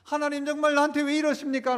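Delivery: pleading complaint, building in pitch; resentful prayer. Acted. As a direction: protest to God with a touch of grievance. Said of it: "원망하는 기도".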